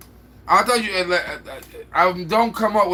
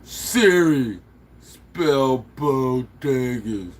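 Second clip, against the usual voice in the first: dictating to Siri; much slower than usual. Real, not acted. Dictating to phone assistant.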